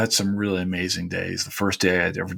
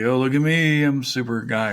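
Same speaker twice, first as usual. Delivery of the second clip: mock bragging; 4 semitones higher than usual. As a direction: ham up a show-off, tongue in cheek. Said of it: "didn't wanna be like".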